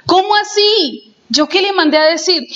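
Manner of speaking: baffled husband asking what he said; surprised. Retold or imitated. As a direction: genuinely caught off guard. Husband confronted by angry wife.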